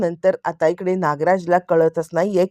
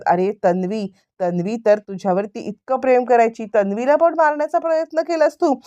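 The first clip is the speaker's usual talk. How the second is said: indignant accusation; 3 semitones higher than usual. Retold or imitated. Brother accuses him of trying to kill Tanvi, indignant reproach. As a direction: reproach rising sharply in pitch. Acted accusation of attempted murder.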